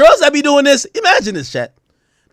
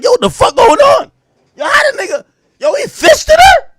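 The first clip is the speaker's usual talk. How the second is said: much higher, shocked yelp of disbelief; 13 semitones higher, 4 dB louder than usual. Retold or imitated. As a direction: screech it like you can't believe what you just saw. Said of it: "I'm like".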